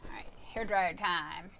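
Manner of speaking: whispered aside to herself; whispering. Real, not acted. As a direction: whisper it under your breath. Muttering before using hair dryer.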